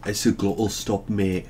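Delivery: mock-British with glottal stops; British accent. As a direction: swallow the Ts in "glottal", British style. Joins in the British accent demo.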